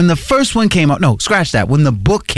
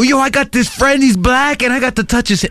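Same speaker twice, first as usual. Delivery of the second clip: bragging dude; 8 semitones higher than usual. Retold or imitated. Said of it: "go back to their boys and go".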